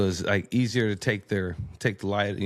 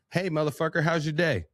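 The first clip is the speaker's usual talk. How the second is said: rough greeting; 8 semitones higher than usual. Shown as a demonstration. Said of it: "I'd be like".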